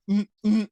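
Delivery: slow high straining hums, imitating air running out; imitated breathless grunts. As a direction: mimic short held-breath spasms, still slow. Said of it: "not the fast ones yet".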